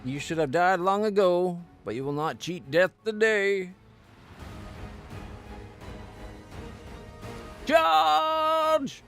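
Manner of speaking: battle cry. Acted. Paladin charges into battle.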